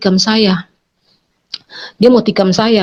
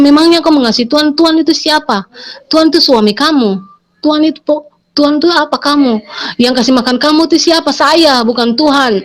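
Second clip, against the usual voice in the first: imitating an indignant husband, pitched higher; mock-angry challenge in a raised pitch; 5 semitones higher than usual. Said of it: "Nah, dia marah".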